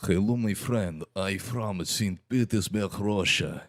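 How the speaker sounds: put-on light Russian accent. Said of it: "with my Russian accent".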